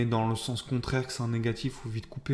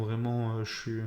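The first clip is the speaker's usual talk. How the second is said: lisp; 3 dB quieter than usual. Real, not acted. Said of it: "j'ai un cheveu sur la langue".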